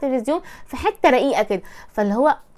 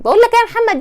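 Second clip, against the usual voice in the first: loud, raised call across the house; calling out to brother; 8 semitones higher, 4 dB louder, faster than usual. Retold or imitated. Wife mimics calling her husband like a brother, loud call. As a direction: yell for Mohamed like a sister in the hallway. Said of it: "ده اخوكي لما يكون في الصاله".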